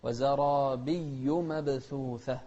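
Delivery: وزرابي مبثوثة slowly, doubling the b in مبثوثة; slow stressed shadda. Shown as a demonstration. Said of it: "بدون تشديد، لا".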